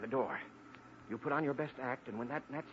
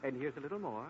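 voice sliding down; 5 dB quieter than usual. Shown as a demonstration. Agent lowers his voice for Jane, shedding the disguise. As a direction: let the fake voice sink gradually, softer. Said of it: "listen to my voice change".

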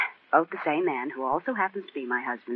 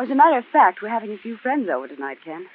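lively; 5 semitones higher than usual. Real, not acted. Playful hint about her party.

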